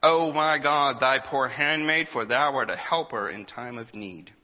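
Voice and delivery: loud, high plea to God, easing at the end; crying out in prayer. A narrator's reading. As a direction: cry out for help, then settle. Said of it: "she cried to the Lord".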